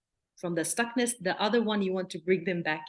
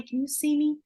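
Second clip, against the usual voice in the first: gentle check-in; 8 semitones higher, 4 dB louder than usual. Shown as a demonstration. Therapist grounding a hyperaroused child gently. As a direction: calmly catch the child's eye. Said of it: "Just use your body".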